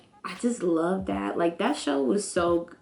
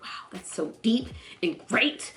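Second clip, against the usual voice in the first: hushed awe; 5 dB quieter than usual. Retold or imitated. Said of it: "I was like".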